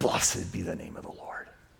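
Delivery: through clenched teeth. Showing what he says standing up from his chair at home, through clenched teeth. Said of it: "with a clenched mouth, clenched teeth".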